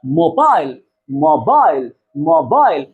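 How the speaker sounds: मोबाइल sounded out as two drawn syllables, mo-BAIL; teacher counting syllables by drawing out मोबाइल; syllable-by-syllable demo. Shown as a demonstration. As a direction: stretch मोबाइल so both vowel sounds stand out. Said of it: "जबड़े के नीचे आपका हाथ रखेंगे".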